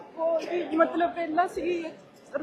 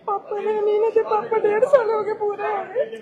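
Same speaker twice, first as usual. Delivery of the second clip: crying; 4 semitones higher, 7 dB louder than usual. Real, not acted. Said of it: "ਰੋ ਨਾ, ਰੋ ਨਾ ਮੇਰੀ ਭੈਣ".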